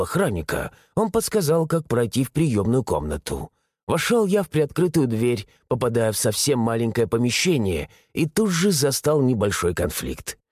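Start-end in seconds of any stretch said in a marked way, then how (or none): none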